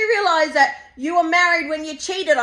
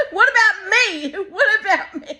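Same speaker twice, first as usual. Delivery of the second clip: mock whine; 4 semitones higher, 3 dB louder than usual. Mock whining about never going.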